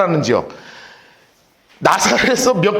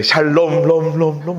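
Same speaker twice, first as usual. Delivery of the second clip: echoing greeting; 6 semitones lower, slower than usual. Acted. Angel greeting Mary, echoing rom rom rom. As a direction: repeat the last syllable like an echo fading. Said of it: "막 이렇게 됐단 말이에요".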